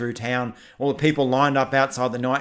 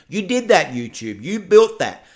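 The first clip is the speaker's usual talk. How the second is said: higher, louder, calling YouTube out; accusing; 5 semitones higher, 5 dB louder than usual. Real, not acted. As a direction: point the finger and raise your voice. Ranting straight at YouTube.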